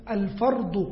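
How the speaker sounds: "อัลฟัรดุ" ending in a short u; Arabic case vowel. Shown as a demonstration. Teacher explaining the Arabic vowel, "อัลฟัรดุ" with short final u. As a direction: close "อัลฟัรดุ" on a brief u after the d. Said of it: "ถ้าตั้งสระของมันนี่นะ".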